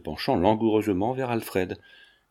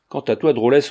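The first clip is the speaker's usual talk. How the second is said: louder, contemptuous rebuke; angry scorn; 2 semitones higher, 7 dB louder than usual. Acted. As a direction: spit the insult at the maid. Countess angrily turns on maid.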